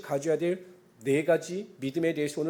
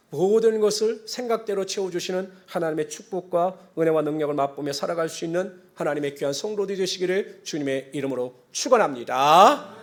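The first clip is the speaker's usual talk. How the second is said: preacher's blessing; 6 dB louder than usual. Real, not acted. Pastor blesses congregation in the Lord's name, swelling proclamation.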